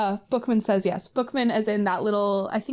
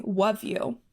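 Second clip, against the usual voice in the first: put-on cutesy baby talk. Shown as a demonstration. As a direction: say it like a lovesick kid. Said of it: "W U V".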